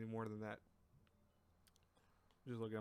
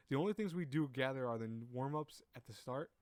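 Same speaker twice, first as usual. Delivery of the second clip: "start" lifted like a question; statement read with a questioning lift on "start"; questioning tune. Real, not acted. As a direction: let "at the start" rise as if asking. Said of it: "say it like it was a question".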